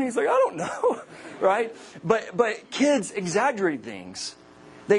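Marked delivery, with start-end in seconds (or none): 0.3-1.0 very high mock-tearful kid voice; squeaky, hammed-up child's wail; imitated whiny child. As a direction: whine it like an upset little boy. Bawling son explains his scream.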